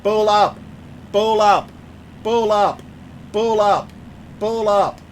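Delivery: lightly imitated automated alarm, evenly spaced; cockpit warning voice. Pilot streamer mimics the plane's pull-up alert, lightly robotic. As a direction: repeat it like a warning system.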